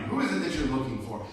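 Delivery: loud, hurried questioning; acted impatience, fast and forceful; impatient. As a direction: fire it off impatiently. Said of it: "it was a form of impatience".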